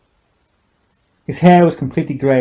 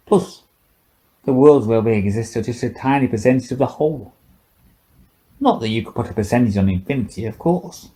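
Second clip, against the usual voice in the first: put-on drunk old scientist; 2 semitones higher than usual. Old scientist taunting the silent girl, tipsy and mocking.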